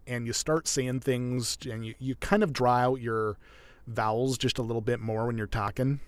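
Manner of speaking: Canadian accent with a tightened throat; Canadian, mouth corners slightly in; stereotypical Canadian accent. Shown as a demonstration. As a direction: draw out the vowels, northern Canadian style. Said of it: "the stereotypical Canadian accent".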